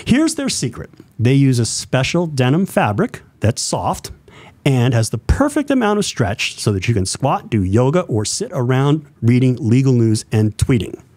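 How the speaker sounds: upbeat radio ad read. Shown as a demonstration. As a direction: read it like a ballgame radio announcer. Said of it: "I do my radio voice".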